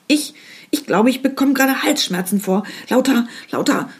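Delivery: disembodied voice. Acted. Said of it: "flüsterte eine Stimme in ihr".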